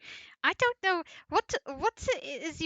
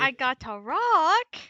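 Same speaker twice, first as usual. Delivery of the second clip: loud and sure of itself; proud loud announcement; 3 semitones higher, 13 dB louder than usual. Real, not acted. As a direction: announce the rock like a big find. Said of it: "You said it so confidently".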